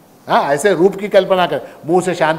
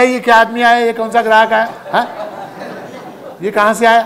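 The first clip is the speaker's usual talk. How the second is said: raised, higher exasperated outburst; exasperated shopkeeper; 6 semitones higher, faster than usual. Retold or imitated. Shopkeeper fed up with a haggling customer, exasperated. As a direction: throw up your hands at the customer. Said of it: "दुकानदार बेचारा झल्ला गया".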